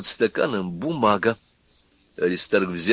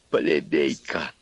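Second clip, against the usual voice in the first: slow, low, softer angry insult; quiet and angry; 7 semitones lower, 4 dB quieter, much slower than usual. A narrator's reading. Husband insults his wife quietly and angrily. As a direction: spit it quietly, with contempt. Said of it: "сказал он зло и тихо".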